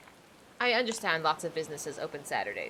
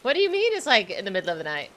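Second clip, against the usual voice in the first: squeaky incredulous repeat; hammed-up disbelief at how late it is; 4 dB louder, faster than usual. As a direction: pitch jumps up in exaggerated disbelief. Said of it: "and I am just like".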